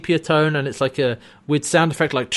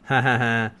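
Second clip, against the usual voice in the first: mock gloating laugh; 3 semitones lower than usual. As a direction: laugh like a gloating trader, put on. Mocking traders' gloating laugh.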